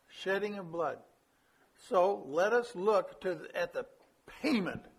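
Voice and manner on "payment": "payment" set apart by pauses and drawn out; deliberate emphasis on "payment"; stress on "payment". Real, not acted. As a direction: lean on "payment" as the key word. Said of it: "I emphasize the word payment".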